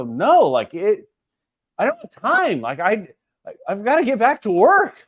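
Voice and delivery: exasperated mock pleading, pitch leaping up; retold protest. Husband retelling his excuse to his wife, protesting.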